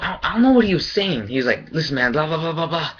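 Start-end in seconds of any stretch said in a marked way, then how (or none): 1.7-2.9 mock angry yell. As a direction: blow up at him, yelling. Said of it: "he starts fucking going crazy".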